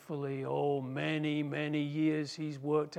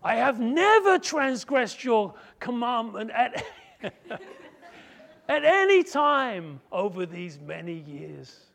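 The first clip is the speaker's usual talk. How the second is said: laughing claim; 6 semitones higher, 8 dB louder, slower than usual. Acted. Son's self-righteous claim, laughing.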